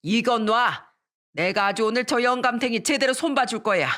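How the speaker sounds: mildly acted angry threat; understated mock fury; raging mother-in-law. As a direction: threaten while refusing to be held back. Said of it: "악을 쓰면서 난리를 쳤습니다".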